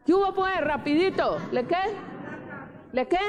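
high-pitched, urgent call for answers; impatient prodding. Real, not acted. Preacher hurrying the congregation to answer, impatient prodding. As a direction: chivvy the listeners along.

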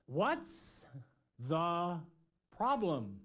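drawn-out call across a storm, word by word; mock yell back. Jesus answering the disciples over the storm, comic yelling back. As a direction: holler it back slowly, comically. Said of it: "yelling back, something like this".

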